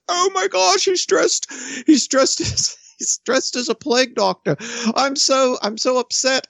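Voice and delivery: high, hammed-up panicked voice; mock panicked parent. Mocking a frightened parent calling the police, hammed-up panic. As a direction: squeal it like a hysterical parent.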